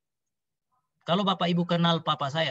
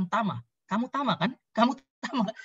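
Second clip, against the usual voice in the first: put-on higher, questioning voice of a mother unsure it's her child; tentative, raised-pitch retold questioning; 5 semitones higher than usual. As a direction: imitate a mother hesitantly checking who this is. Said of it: "kayak orang yang nggak kenal anaknya".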